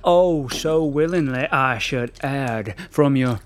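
Southern American put-on, slow and grandiose; lightly Southern American Poe. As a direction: lord it over her in a Southern American drawl. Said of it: "that weird accent".

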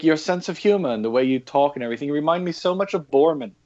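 lightly put-on German accent, a bit quick. Old German lady telling the EMT he reminds her of Bormann, mild German accent. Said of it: "forgive my horrible accent".

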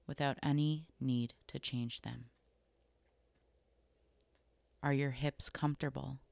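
calm, unhurried body scan guidance with long pauses between phrases; guided meditation. Acted. Host guiding listeners through a body scan, calm guided meditation. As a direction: gently lead them through it, leaving room to notice.

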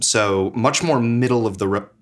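hiccuping mid-sentence; talking through hiccups. Real, not acted. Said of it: "Again, hiccup".

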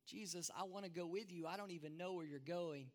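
soft, quick plea to his teacher; Thomas pleading softly. Acted. Thomas quietly begs Jesus to take him along, softly pleading. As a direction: hush it like a frightened follower.

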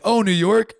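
high, puzzled question; mock confused guess. Imitating a European mistaking Rhode Island for New York, high. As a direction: guess brightly and wrongly. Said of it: "they're like".

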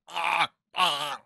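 high put-on grunt; demo noise. Shown as a demonstration. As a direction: voice it like a silly demo. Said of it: "You can just go".

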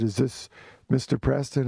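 imitating an officious caller; mildly stern, formal phone manner; serious officious voice. Police caller checking the writer's name, serious and officious. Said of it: "very serious, officious voice, speaking Italian".

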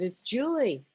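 lilting mock call at a door; calling back. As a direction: announce yourself through a door. Answers through the door.

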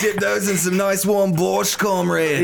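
mock Russian.

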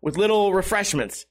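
ordinary talk

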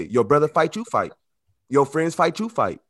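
a hint of a mother laying down the rule "Your brother fight, you fight"; imitating mama's advice. Mama telling her son to back his brother, mild mock firmness. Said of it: "what your mama say?".

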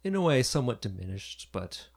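put-on preen like a vain old dragon. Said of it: "he says".

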